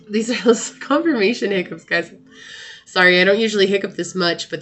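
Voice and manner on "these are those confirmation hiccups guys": laughing. Real, not acted. Laughs about own hiccups.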